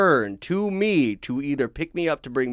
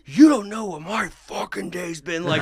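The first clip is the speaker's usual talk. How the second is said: raised, heated rant; a mock furious outburst, louder and higher; retold angry scream; 8 semitones higher, 4 dB louder than usual. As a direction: yell it like you've snapped at a big guy. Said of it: "And I screamed".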